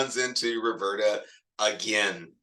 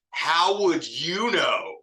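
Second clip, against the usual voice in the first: troll sign slogan; 5 semitones higher, much slower than usual. Retold or imitated.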